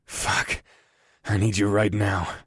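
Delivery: breathy unvoiced growl; whisper-growl it urgently; growled curse. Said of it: "I growled".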